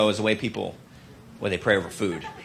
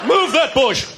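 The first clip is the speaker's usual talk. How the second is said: devil voice; 10 semitones higher than usual. Acted. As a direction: play the devil baffled by a hedge. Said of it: "And watch out".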